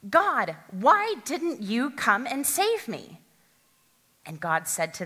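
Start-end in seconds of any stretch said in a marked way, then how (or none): 0.1-3.2 demanding. Acted. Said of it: "the man demanded".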